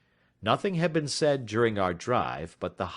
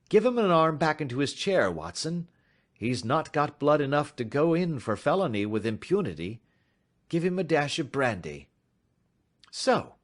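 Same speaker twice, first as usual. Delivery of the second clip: louder, commanding detective with a dry edge; brisk detective in charge; 6 semitones higher, 3 dB louder than usual. A narrator's reading. Detective ordering Watson to help the clerk, brisk command. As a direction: take control of the fainting man.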